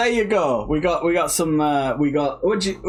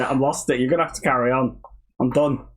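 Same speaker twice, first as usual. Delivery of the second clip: normal talking voice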